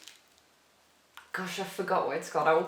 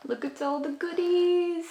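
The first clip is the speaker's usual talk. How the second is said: much higher and louder, squealing over the goodies; thrilled gasp of delight; 10 semitones higher, 5 dB louder than usual. Real, not acted. Delighted unboxing discovery.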